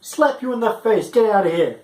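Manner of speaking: high, mock-indignant snap; mock outburst. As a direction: fake fury at her annoyance. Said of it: "I'm like".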